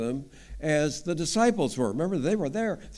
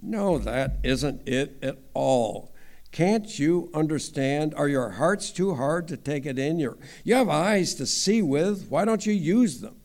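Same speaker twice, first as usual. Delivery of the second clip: harsh rebuke. Acted. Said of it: "That's pretty harsh".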